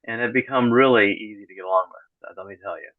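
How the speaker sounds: dry, deadpan sarcasm; sarcastic. Real, not acted. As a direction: say it dry, meaning the opposite. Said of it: "that, that's sarcasm".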